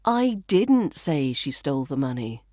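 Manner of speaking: "didn't" punched, falling afterwards; stress on DIDN'T. Shown as a demonstration. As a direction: lean hard on "didn't" as a denial. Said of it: "put the stress on a different word".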